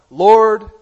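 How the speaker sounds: "Lord" called out loud and high; a retold plea, half acted; crying out for help. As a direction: cry "Lord" like a sinking man begging rescue. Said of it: "he cried out".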